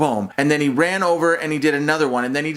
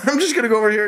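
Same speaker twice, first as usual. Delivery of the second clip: laughing; 8 semitones higher than usual. Real, not acted. Baffled by the kid's workout.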